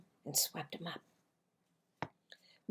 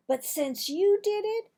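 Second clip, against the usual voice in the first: put-on high, louder eager kid; lightly voiced eager boy; 12 semitones higher, 7 dB louder than usual. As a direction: jump at the chance. Boy decides to taste too.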